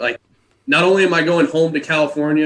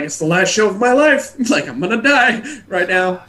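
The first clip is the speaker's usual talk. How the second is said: much higher and louder, hammed-up doom with a laugh; melodramatic joke; 9 semitones higher, 6 dB louder than usual. Joking to the crew about his last show, hammed-up doom. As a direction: overplay it like the end of the world. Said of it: "I'm like".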